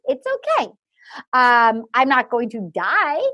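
imitating Juan Pablo. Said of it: "He goes".

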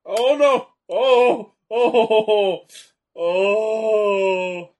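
high, loud ohs building to a yell; alarmed cries. Real, not acted. Fans watch a move nearly go wrong, alarmed shouting. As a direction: react with mounting shock. Reacting to a near disaster.

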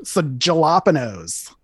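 put-on slow, drawn-out valley girl voice; hammed-up valley girl drawl. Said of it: "I'm just trying to sound like a fucking Valley girl".

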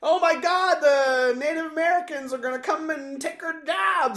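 high, shrill-edged mocking panic voice. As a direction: ham up the panicked townsfolk.

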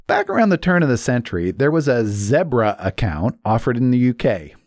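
mild British accent on zebra, said ZEH-bra; a light British take, zebra with a short e. Shown as a demonstration. Host tries a British accent for fun, lightly done. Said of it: "I just thought I'd say that with a British accent".

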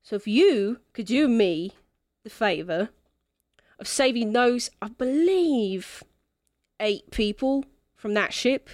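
put-on lightly accented drunken quest-giver; tipsy non-player character. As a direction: lay out the job as a mildly tipsy rogue. Game master voices Echo.

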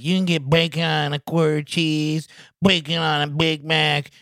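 hammed-up fast food commercial; mock ad voice. Mocking a McDonald's bacon promotion, ad announcer.

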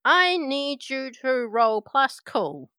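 eager minion making a demand; high sidekick call, settling down; Steve's voice. Acted. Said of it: "He goes".

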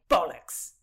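loud, indignant roared curse. A narrator's reading. Rutland told Oxford shoots better, roaring. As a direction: roar it out, affronted. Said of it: "he roared".

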